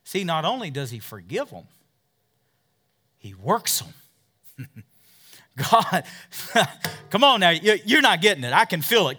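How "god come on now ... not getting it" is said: usual speaking voice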